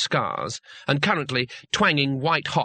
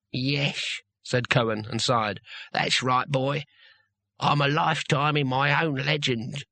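put-on weary old barbarian; slower than usual. Cohen answers wearily.

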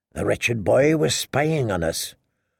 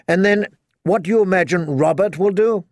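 higher, scolding woman's voice; berating queen; 6 semitones higher than usual. Acted. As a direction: scold him sharply. Cersei challenges Jamie.

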